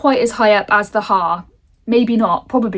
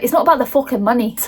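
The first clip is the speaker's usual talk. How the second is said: lightly attempted Scottish accent on a retort; 2 semitones higher, faster than usual. Villagers refusing the housing company's money, in an attempted Scottish accent. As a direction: have a half-hearted go at a Scottish accent. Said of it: "I'm gonna try and do a Scottish accent".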